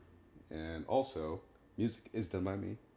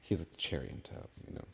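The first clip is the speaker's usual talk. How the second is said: whisper; 6 dB quieter than usual. Real, not acted. Joking aside about Happy.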